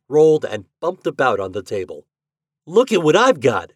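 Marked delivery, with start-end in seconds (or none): 2.7-3.7 put-on high, loud boyish exclamation; mild shriek. A narrator's reading. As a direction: show off a find excitedly. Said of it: "shrieked Hoppy".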